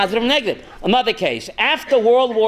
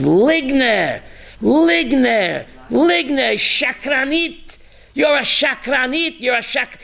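a gentle man finally losing his temper; angry outburst; 4 semitones higher, slower than usual. Retold or imitated. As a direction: rabbi exploding at a lying woman in his class, shouting. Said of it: "He kept screaming".

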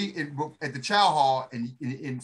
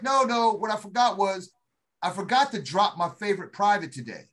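teasing drill sergeant; 5 semitones higher, 4 dB louder than usual. Retold or imitated.

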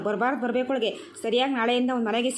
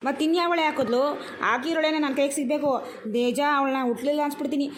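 angry demand; 2 semitones higher than usual. Acted. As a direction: demand who did it, fuming. Angry quarrel over dumped rubbish.

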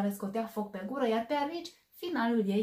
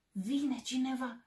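startled; 4 semitones higher, slower than usual. Acted. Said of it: "tresări speriat".

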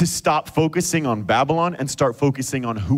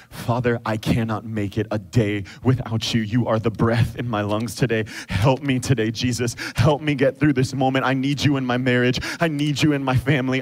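a hushed prayer from the desert; heartfelt prayer; 3 semitones lower than usual. Acted. Leads a prayer.

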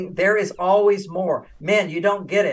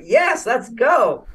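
higher, slow and eager; eager yes; 5 semitones higher, much slower than usual. Retold or imitated. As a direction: perk right up with relief. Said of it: "I'm like".

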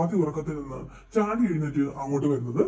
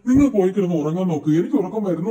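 louder, fed-up brush-off; annoyed louder; 6 dB louder than usual. Acted. Rajani sends Prabhitha back to bed, irritated and louder. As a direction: shoo her off to bed, irritated. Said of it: "എന്ന് രജനി പറയുന്നുണ്ട്".

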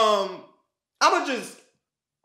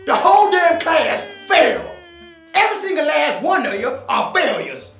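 loud sharp voice. Acted. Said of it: "Why are you yelling?".

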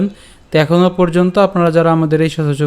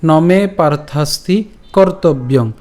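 slow, measured shloka phrase; verse recitation; slower than usual. Shown as a demonstration. Teacher putting the first phrase together, slow recitation. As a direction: recite it word by word, drawn out. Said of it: "তাহলে উচ্চারণটা কেমন হচ্ছে?".

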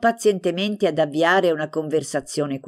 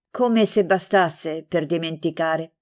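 slow, mock-sad sigh of a line; feigned sadness. Franca to Stefano, fishing for sympathy, slow mock sadness. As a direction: put on a touch of sorrow to draw him in. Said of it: "fingendo di essere improvvisamente rattristata".

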